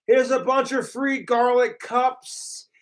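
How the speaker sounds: unvoiced mock whisper of the troll line; whispered mocking repeat. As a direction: hiss it like a secret.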